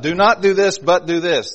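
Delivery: NOT hit high and loud, answered by BUT; loud, emphatic NOT against a balancing BUT; stress on NOT and BUT. Shown as a demonstration. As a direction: set up the contrast, punching NOT, then BUT. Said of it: "He says there's a not, but".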